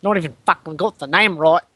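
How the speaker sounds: put-on grumbling Australian bogan accent; bogan rant. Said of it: "a bogan racist rant".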